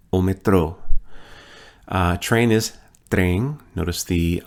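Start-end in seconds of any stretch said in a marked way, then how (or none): 0.1-0.8 metrô stressed on the last syllable, me-TRÔ; stress on final syllable. Shown as a demonstration. Teacher models the word for subway, stress on the last syllable. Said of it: "Notice the accent on the final syllable".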